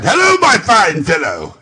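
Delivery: put-on eager call to a boy below. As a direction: shout down to the street. Calling to the boy.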